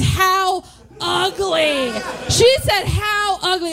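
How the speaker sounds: high-pitched, incredulous indignation; comic outrage. Retold or imitated. Comedian repeats the landlady's insult, high outraged disbelief.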